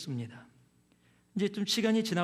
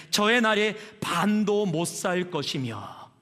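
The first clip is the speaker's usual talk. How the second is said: slow scripture quote; 4 dB louder, slower than usual. Retold or imitated. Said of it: "이렇게 기도를 해요".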